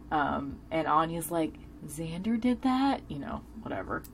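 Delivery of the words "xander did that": lightly mimicked surprise, pitched higher; surprised question. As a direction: retell it as a mildly incredulous question. Retold reaction of Anya, questioning.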